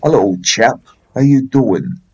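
Cornish attempt slipping into Rocky; slightly punchy Rocky-like Cornish greeting; failed Cornish, like Rocky. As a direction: have a go at Cornish and land on Rocky. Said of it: "That sounds more like Rocky".

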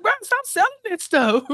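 high, fed-up bruh; exasperated. Retold or imitated. Mock exasperated neighbor.

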